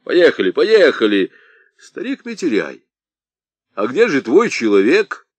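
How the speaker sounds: loud, urgent calls to move on; loud hurry. Acted. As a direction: rush them out. Сарбалахов торопит ехать. (громко торопит ехать)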